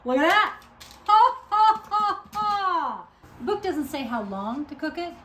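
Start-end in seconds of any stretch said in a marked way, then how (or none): 1.1-3.1 loud high ha ha; hammed-up laugh. Real, not acted. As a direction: laugh big and theatrical. Mock laugh after look at that.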